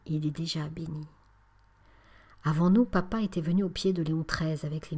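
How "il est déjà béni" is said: soft, hushed and kind; gentle, softened murmur; gently. Acted. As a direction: reassure her tenderly. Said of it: "reprit avec douceur".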